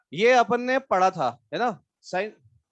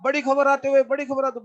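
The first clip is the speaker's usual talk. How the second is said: mock breaking-news yell, higher and louder; shouting news anchor; 5 semitones higher, 5 dB louder than usual. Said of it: "जिसमें female anchor जैसे चिल्लाती है". (चिल्लाती news anchor की नकल)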